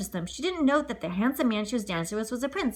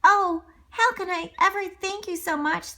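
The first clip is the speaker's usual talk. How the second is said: put-on delighted girl; 9 semitones higher than usual. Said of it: "the delighted girl".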